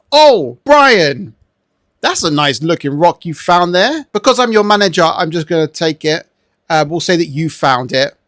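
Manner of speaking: lightly voiced manager taking credit; hint of a self-serving boss; mock sly manager. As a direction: play a boss casually claiming the find. Voices manager claiming the rock.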